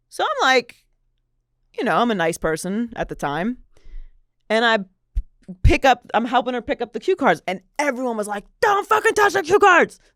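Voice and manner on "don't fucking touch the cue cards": shrill, high-pitched scream. Retelling how everyone reacted when the speaker helped pick up cue cards; imitating someone screaming. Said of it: "Like screaming at me".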